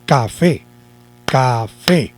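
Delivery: café said carefully as two syllables, ca, fé; pronunciación por sílabas. Shown as a demonstration. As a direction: sound out café slowly for the class. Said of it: "vamos a pronunciarlo". (café pronunciado despacio, ca-fé)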